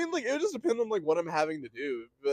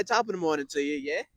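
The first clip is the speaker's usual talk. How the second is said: jokey British greeting; British accent improv. Acted. Improv British movie star greeting, mock British accent. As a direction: put on a playful British lilt. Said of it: "you're a British movie star".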